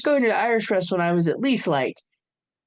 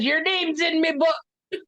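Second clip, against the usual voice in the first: a light, slow mock Irish accent for Dad's catchphrase; hammed-up Irish brogue, drawn out slowly; terrible Irish accent; 7 semitones higher, slower than usual. Imitating Dad's catchphrase to her sister in a bad Irish accent. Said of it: "there's gonna be a lot of terrible Irish accents".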